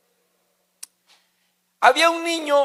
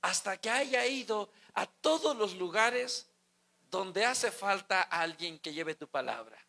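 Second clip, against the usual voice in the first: hushed, softer plea to the Lord; quiet prayer; 8 dB quieter than usual. Retold or imitated. Preacher voices his wish to God as a hushed prayer. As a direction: pray it under your breath, earnestly. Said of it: "quisiera pedirle a Dios".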